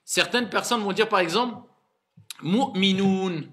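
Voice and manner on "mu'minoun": Mu'minoun with pure ou vowels, last one held; prononciation correcte. Shown as a demonstration. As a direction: draw out a clean ou ending Mu'minoun. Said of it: "je vais finir le verset avec Mu'minoun". (prononciation correcte, Mu'minoun avec un ou long)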